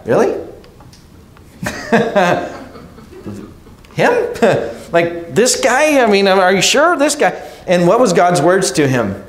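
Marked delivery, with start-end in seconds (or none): 0.1-7.3 put-on Samuel can't believe this boy is chosen; incredulous. Preacher voicing Samuel seeing David, amused disbelief. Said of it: "it was like".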